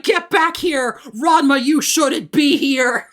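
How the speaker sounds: mock scolding. Voicing Kasumi calling to Ranma, mock scolding. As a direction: call out a mild mock reprimand.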